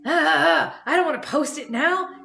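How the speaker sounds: reluctant, fed-up self-talk; frustrated self-quote. Retold or imitated. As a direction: whine about not wanting to post. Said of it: "I'm like".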